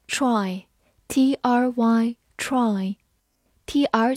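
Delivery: slow, deliberate spelling out. Shown as a demonstration. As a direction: spell the letters slowly. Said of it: "spelling and slow word demo".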